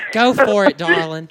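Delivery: a man lightly playing a sweet woman, calling her darling; a man putting on a woman's voice, teasing; girl voice. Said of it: "I still don't know who's doing that voice".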